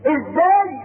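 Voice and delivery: slow, weeping words of faith; choked-up preacher; tearful. Real, not acted. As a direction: let the tears break through, very slowly. Preacher moved to tears on faith.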